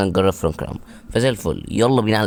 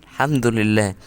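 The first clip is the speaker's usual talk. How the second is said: screaming with delight at a lucky pull; a gamer losing it over his dream card; ecstatic pack reaction; 8 semitones higher than usual. Real, not acted. Pulls a long-awaited Frank Lampard card.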